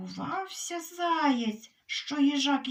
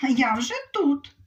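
loud playful call; shout; 2 semitones higher, 6 dB louder than usual. Acted. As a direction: call out triumphantly, louder. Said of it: "ти крикни". (гучний переможний вигук)

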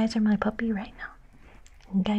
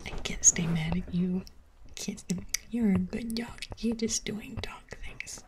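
mock forgiving owner.

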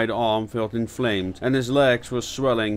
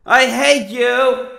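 angry; 14 semitones higher, 9 dB louder, slower than usual. Acted. Bitter accusation.

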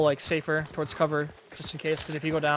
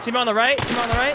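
raised, high warning call; urgent callout; 6 semitones higher, 3 dB louder than usual. Real, not acted. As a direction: shout it to the team.

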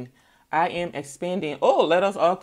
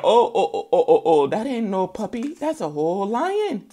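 louder, higher alarmed oh oh; startled realization; 3 semitones higher, 4 dB louder than usual. Retold or imitated. Owner realizing it's a lion, mild mock alarm. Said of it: "it's like".

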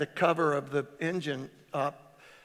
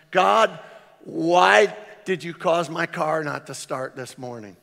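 complaining cry to God; 7 dB louder than usual. Retold or imitated. Complaining prayer voiced.

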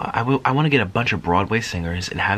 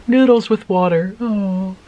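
laughing; 10 semitones higher, 5 dB louder, slower than usual. Real, not acted. Laughs reading a comment.

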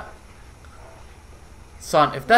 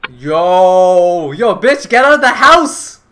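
shouted warning, louder toward the end; yelling at the screen; 5 dB louder, slower than usual. Real, not acted. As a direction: yell at the character to get out of the house.

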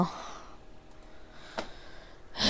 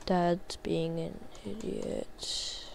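quiet aside; 2 semitones lower, 13 dB quieter, slower than usual. Real, not acted. Aside about dad, muttered low.

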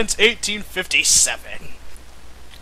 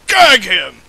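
shouted order; 2 semitones lower than usual. Acted. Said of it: "she shouted".

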